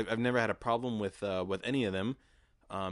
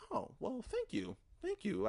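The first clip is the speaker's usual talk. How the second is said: much higher, coy bashful thanks; mock flattered; 3 dB quieter than usual. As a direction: play it like blushing at a compliment. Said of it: "So I was very like".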